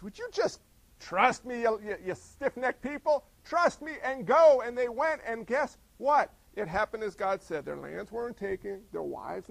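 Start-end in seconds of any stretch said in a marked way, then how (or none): 0.0-4.6 God's voice. Retold or imitated. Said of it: "God says".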